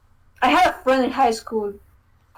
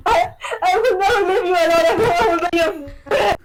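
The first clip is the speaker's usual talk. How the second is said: 1 friend's voice; 8 semitones higher than usual. Retold or imitated. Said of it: "And she was like".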